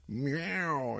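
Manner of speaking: a soft, high imitation meow; mock cat meow. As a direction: meow softly like the cat on the show. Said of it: "a cat interrupting the captain's log".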